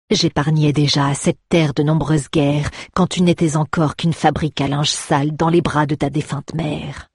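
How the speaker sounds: a hint of menace; lightly voiced threatening father; menacing. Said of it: "son regard était terrifiant".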